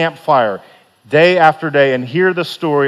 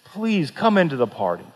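soft begging; 5 dB quieter than usual. Acted. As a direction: beg him gently to come inside. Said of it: "he's begging him".

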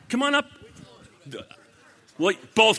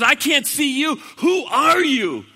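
high, loud questioning call; acted calling out; 9 semitones higher, 6 dB louder than usual. Jack asking the unseen voice who it is, calling out.

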